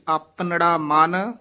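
"ਆਪਨੜਾ ਮਨ" ending in a short check; measured "ਆਪਨੜਾ ਮਨ" with a closing beat; brief pause after. Shown as a demonstration. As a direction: hold "ਮਨ", then halt briefly. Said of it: "ਇੱਥੇ ਠਮਕ ਹੈ".

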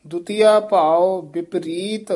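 slow phrase resting on ਵਿਪਰੀਤ; pause after ਵਿਪਰੀਤ. Shown as a demonstration. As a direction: stretch it, then stop fully at ਵਿਪਰੀਤ. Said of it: "ਇੱਥੇ ਵਿਸਰਾਮ ਲਾਉਣਾ ਹੈ".

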